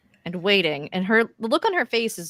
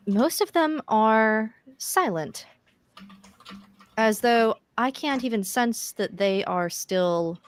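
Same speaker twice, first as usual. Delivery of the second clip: Alexa's voice; 3 semitones higher than usual. Acted.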